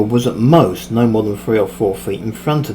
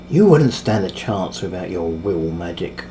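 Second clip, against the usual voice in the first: slow, lower accusation; accusing; 5 semitones lower than usual. Acted. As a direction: throw it at him as a charge. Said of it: "Race accused".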